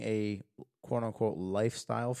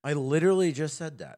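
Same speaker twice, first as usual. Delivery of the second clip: louder, higher mock outrage; mock indignant; 5 semitones higher, 6 dB louder than usual. Real, not acted. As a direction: call him out in playful protest. Cohost repeats her point.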